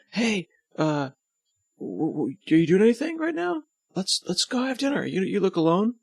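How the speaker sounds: high, eager surfer dude. Retold or imitated. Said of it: "so I'll just make them surfer dudes".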